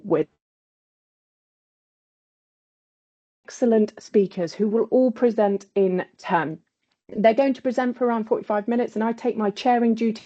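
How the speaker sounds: choppy connection with dropouts; sound cutting out. Real, not acted. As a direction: voice breaking up over bad internet. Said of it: "your sound keeps cutting out".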